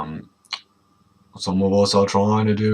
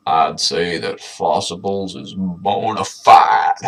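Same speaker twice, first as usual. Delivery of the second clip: slow shouting dino; 6 semitones lower, slower than usual. Acted. Ron voiced slow shout.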